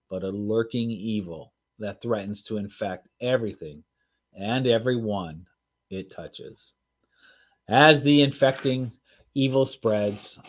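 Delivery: dramatic read-aloud narration; storytelling voice. Acted. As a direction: read it like a book trailer. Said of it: "storytelling voice going".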